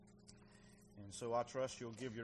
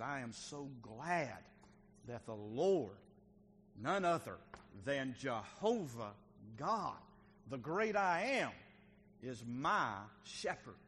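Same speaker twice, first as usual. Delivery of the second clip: acted glad declaration. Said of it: "And so he said".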